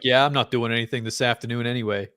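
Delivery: put-on lightly American accent; casual American accent for a bureaucrat. Voicing the statistics guy in a light American accent. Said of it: "got an American accent".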